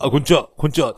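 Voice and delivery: 高く大きな声で元気に返す後輩役; 先輩に慌ただしく挨拶を返すふり; 後輩の挨拶の真似. Retold or imitated. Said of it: "後輩は". (威勢のいい後輩の挨拶)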